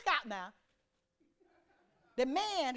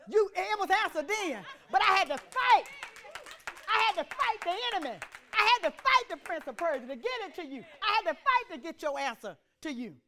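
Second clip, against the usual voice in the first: loud, raised preacher's cry on FIGHT; forceful preaching; 5 semitones higher, 5 dB louder than usual. Acted. Preacher voicing the angel who fought for the answer, forceful preaching. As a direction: drive it home like a preacher.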